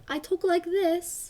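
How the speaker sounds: slow, lilting sing-song delivery; slow sing-song speech with a lilt. Shown as a demonstration. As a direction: let the words bounce up and down as you speak them. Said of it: "You speak in a sing-song voice".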